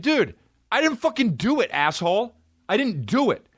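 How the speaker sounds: high, yelling defendant, furious and indignant; imagined courtroom outburst. Pretend. Wrongly accused man yelling at the court, furious. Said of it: "I'd be like".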